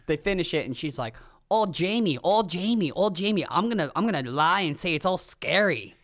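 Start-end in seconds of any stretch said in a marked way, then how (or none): 1.5-6.0 mock Boston accent, whiny. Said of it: "That's my Boston accent".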